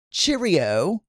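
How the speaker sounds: a light imitation of a British accent; understated mock British accent. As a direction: toss off a half-hearted British cheerio. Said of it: "it was a British accent".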